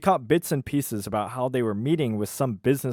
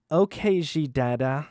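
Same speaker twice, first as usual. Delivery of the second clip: higher, slightly awkward; Delaney's voice; 4 semitones higher than usual. Acted. Waitress humoring the president, a higher awkward reply. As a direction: say the odd nickname shyly. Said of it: "I'll do the voices".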